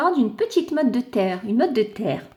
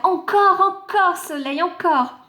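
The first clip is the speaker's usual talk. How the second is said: begging for more; 7 semitones higher than usual. Acted. The clod begging the sun for more, higher. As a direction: ask again and again for more warmth.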